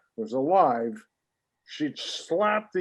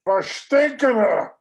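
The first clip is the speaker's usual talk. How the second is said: slow, loud, higher disgusted cry; disgusted outburst; 6 semitones higher, 4 dB louder, slower than usual. Acted. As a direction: spit out the curse in disgust. Dog pees in shop.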